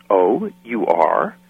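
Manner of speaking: slow, doubting "you are?"; drawn-out mock disbelief; skeptical eyebrow raise. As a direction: raise a sceptical eyebrow with your voice. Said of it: "kind of raised her eyebrow and goes".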